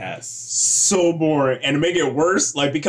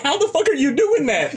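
amazed; 10 semitones higher than usual. Retold or imitated. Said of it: "turned her head and was like".

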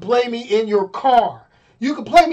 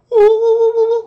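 high squeaky fish call, hammed up; Aquaman talking to fish; 14 semitones higher, 6 dB louder than usual. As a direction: squeal it like a cartoon hero calling fish. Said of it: "he was like".

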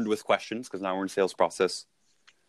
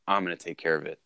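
calm in control; 4 semitones lower, 6 dB quieter than usual. Retold or imitated. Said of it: "this person just come and said".

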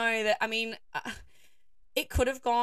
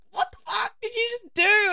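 high, louder shocked cry; stunned disbelief; 13 semitones higher, 8 dB louder than usual. Retold or imitated. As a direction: ask it as if you just saw something insane. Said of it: "I'm like".

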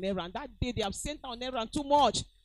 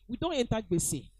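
mock grumbling; 4 dB louder than usual. People complaining about Buhari government, rising loud grumble. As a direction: grumble that rises to a loud complaint on This man bad. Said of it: "When Buhari first started".

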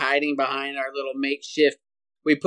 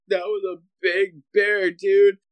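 shaken dad; 6 semitones higher than usual. Retold or imitated. Son imitating his shaken father after the bear, higher and dazed. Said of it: "Now he's like".

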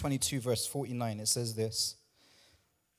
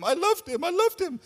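high, pleading imitation of a jilted woman; mock heartbroken lover; 11 semitones higher than usual. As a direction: mimic her clinging to the lost love. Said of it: "And you loved him".

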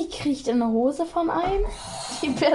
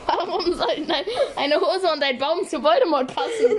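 laughing through the words; 4 semitones higher than usual. Real, not acted. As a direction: ask it while laughing. Laughing question.

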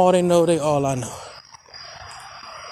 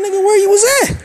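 high, loud accusing demand; angry demand; 12 semitones higher, 5 dB louder, faster than usual. Retold or imitated. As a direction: throw the question at him hard. Confronting dad on the phone.

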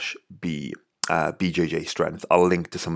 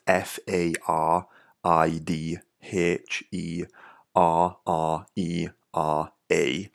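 each letter spaced and clear, slow; spelled out slowly; much slower than usual. Shown as a demonstration. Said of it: "probably hard to disseminate in my Welsh accent".

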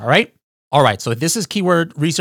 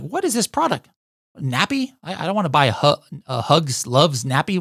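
puzzled American shopper; 2 semitones higher than usual. Pretend. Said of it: "people will be like".

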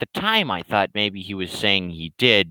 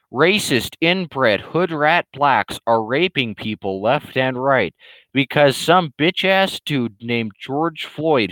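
ranting troll; 2 semitones higher than usual. Acted. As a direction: drag out the troll's rant with mock outrage.

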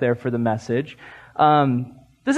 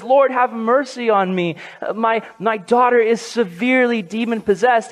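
mild imitated cry, higher pitch; 5 semitones higher than usual. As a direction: plead aloud as the woman, raised pitch, little extra volume. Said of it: "she cries out and says".

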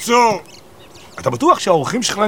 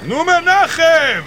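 drawn-out, higher call of his name; impatient call; 8 semitones higher, 3 dB louder, much slower than usual. Acted. Friend outside the house calls Menachem, drawn-out and impatient. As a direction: stretch the name out, fed up.

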